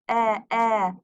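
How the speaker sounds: "e, e" as two separate short "eh" sounds; short vowel. Shown as a demonstration. Teacher showing the short vowel "e", sounded twice. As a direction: isolate the "e" of pencil as "eh, eh". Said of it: "short vowel".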